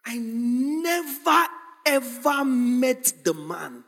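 slow, drawn-out acted denial; emphatic denial. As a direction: deny it word by word, stretching "never ever". Acts out Peter's emphatic denial.

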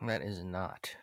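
whispered. Real, not acted. Grim agreement, whispered.

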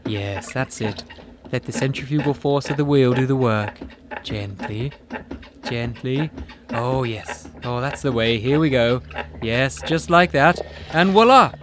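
sultry instructor. Acted. Potter's sensual instructions.

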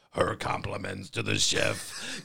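slow flat robot voice. Retold or imitated. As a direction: say it like a robot, slowly. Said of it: "just goes in a robot voice".

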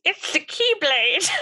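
lightly attempted duck voice; Donald Duck voice. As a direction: try a squawky cartoon duck. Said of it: "can Julia do the Donald Duck voice".

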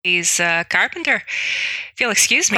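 halting, put-on Irish; Irish accent. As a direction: make excuses in an Irish accent. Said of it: "do my best Irish accent".

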